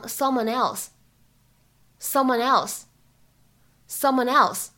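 "someone else" linked into one run; linking. Shown as a demonstration. Teacher models linked "someone else". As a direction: join "someone" smoothly into "else". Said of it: "可以变成".

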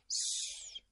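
soft voiceless shush; hushing. Acted. Chick hushes friends to listen, hushing. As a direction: shush the others quickly.

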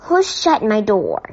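roar. Acted. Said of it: "roared Mister Curry".

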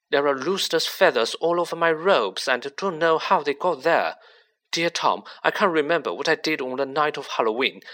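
fast, mocking imitation of a frightened girl; reciting Ginny's diary. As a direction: rattle off her panicked entries in a mild mock voice. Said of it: "he recited".

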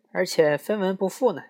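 tossing it off with glee; gleeful. Acted. Bug laughing, quoting. (更高更响的得意调侃)

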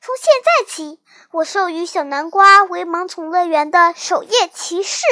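loud, formal knighting announcement; projected voice bestowing a title; ceremonial proclamation. A narrator's reading. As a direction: proclaim it to the whole court. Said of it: "夏猪宣布".

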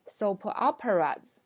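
imitated Colombian accent. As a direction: soap operas as a Colombian speaker says it. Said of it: "她发音是有明显的口音的".

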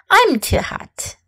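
put-on breathy whisper of a hot tired child. Shown as a demonstration. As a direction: whisper it as if worn out by the heat. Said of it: "let's practice some sentences".

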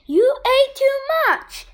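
high-pitched mild yell in narration. A narrator's reading. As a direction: read it as a child's yelled complaint, pitch jumping up. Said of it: "Tom yelled".

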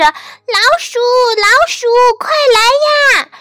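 very high, loud screech, fast at the end. Acted. Duck runs screeching for mouse, very high loud cries. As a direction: screech for help as loud as you can. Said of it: "一面用最大的声音尖叫着".

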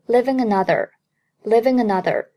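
"living another" run together as one word; linked pronunciation. Shown as a demonstration. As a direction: link "living" straight into "another". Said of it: "living和another可以连读成".

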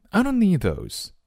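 high-pitched, falling reply; high storybook girl's voice; storybook Nellie. Acted. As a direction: politely decline in a high character voice.

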